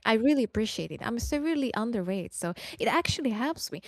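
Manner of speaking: high, bright mock thanks; sarcastic gratitude. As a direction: thank the troll with fake sweetness.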